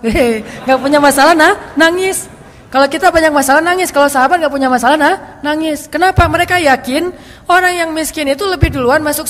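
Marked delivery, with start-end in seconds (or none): 0.0-2.3 laughing. Real, not acted. Laughing at paradox. 5.8-6.2 emphatic question. Real, not acted. Rhetorical question to audience.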